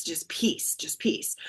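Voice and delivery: soft, breathy near-whisper of peace. Retold or imitated. Daughter in the waiting room whispering to calm herself, hushed. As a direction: breathe the words out like a calming mantra.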